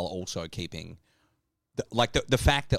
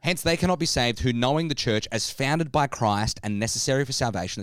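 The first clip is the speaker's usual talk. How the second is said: formal reading. Shown as a demonstration. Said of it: "I just wanna read this part again".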